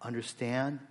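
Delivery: earnest pastor praying aloud, measured pauses; prayerful. Real, not acted. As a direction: lead the congregation in heartfelt prayer. Leads the congregation in prayer.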